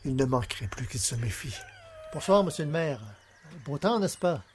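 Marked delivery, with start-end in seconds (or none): 2.1-4.4 feigned politeness. Acted. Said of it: "je dois donner le change".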